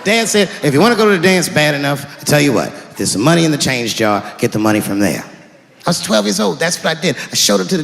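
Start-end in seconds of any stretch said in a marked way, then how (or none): 0.6-5.2 dad voice. Retold or imitated.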